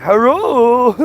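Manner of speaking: hammed-up stereotyped Asian accent, one word; mock Asian accent. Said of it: "they always talk like this".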